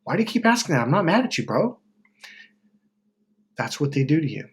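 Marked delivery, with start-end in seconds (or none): 0.0-1.8 high, puzzled pushback; exasperated friend. Retold or imitated. Annoyed people answering a worried friend, high and exasperated. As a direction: toss it back like they're baffled by you. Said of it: "People are like".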